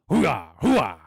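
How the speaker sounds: loud, high barking hoo-ah; Al Pacino hooah. Retold or imitated. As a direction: bark it out like a gung-ho soldier. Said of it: "that's my Pacino".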